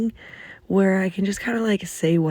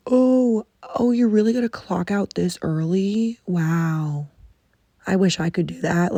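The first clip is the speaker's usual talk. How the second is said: condescending. Retold or imitated. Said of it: "sometimes it's even condescending".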